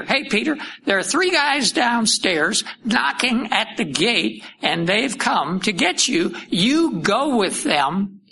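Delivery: high, urgent call to Peter; Holy Spirit commanding Peter to go. Acted. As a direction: call him up from downstairs, firm.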